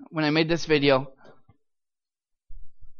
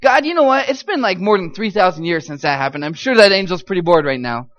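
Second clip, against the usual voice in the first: loud, high plea to heaven; frantic bargaining prayer; 4 semitones higher, 8 dB louder than usual. Retold or imitated. Officer's captive bargaining with God for a way out, frantic. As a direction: plead urgently and loudly, talking God into it.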